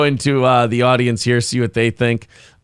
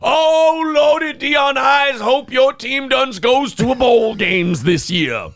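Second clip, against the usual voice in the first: much higher, shouted mock Southern accent; loud mock Southern accent; 9 semitones higher, slower than usual. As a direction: yell a hammed-up bayou Southern accent. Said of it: "I said talk like you talk".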